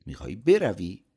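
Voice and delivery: startled disbelief at his quitting; surprised. A narrator's reading. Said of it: "او با تعجب گفت".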